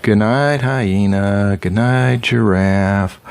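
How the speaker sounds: zookeeper's soothing goodnights. Acted. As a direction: bid each animal goodnight like the zookeeper. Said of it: "the zookeeper says".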